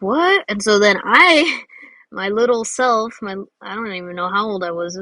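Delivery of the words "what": much higher, louder disbelieving What?; shocked child. Retold or imitated. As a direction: kid hearing the toy was taken. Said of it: "And I was like".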